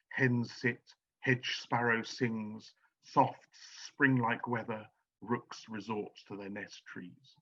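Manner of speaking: slow, deliberate verse reading; slow Old English-style recitation; poem reading. Shown as a demonstration. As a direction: weigh each alliterative beat slowly. Reads verse as Anglo-Saxon poetry.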